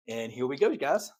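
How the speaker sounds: breathless, winded from excitement; out of breath while talking. Real, not acted. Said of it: "I am out of breath".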